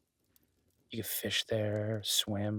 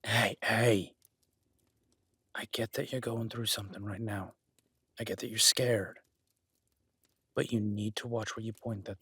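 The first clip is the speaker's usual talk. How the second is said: calming but tense. Acted. Talking guest down with gun.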